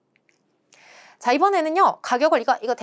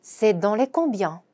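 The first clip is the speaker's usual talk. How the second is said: slow French, "combien" stressed; careful teaching read; slow demo pronunciation; much slower than usual. Shown as a demonstration. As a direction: model slowly. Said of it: "이렇게 말하는 거죠".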